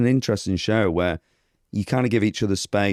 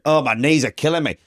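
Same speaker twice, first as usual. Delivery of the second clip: mock whinge with a higher voice; whinging mum; 5 semitones higher than usual. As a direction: imitate a complaining mum, pitched up. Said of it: "she just whinged".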